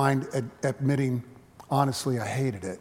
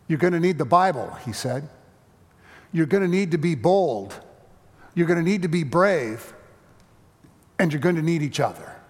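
put-on a touch of a solemn child, louder; boy's bold word; 3 semitones higher, 5 dB louder than usual. Boy Joshua tells the quarrelling church, firm and louder. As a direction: speak up firmly like a brave boy.

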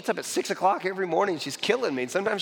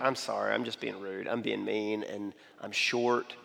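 sincere apology; 7 semitones lower, 5 dB quieter than usual. Retold or imitated. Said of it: "I was like".

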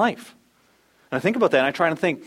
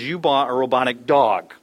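buddy teasing; 3 semitones lower, 5 dB louder, slower than usual. Acted. Buddy mocking his purchase.

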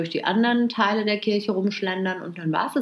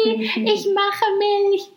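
high, slow, laughing repeat; laughing mockery; 13 semitones higher, 4 dB louder, much slower than usual. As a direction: crack up while repeating it. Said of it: "Und alle nur so".

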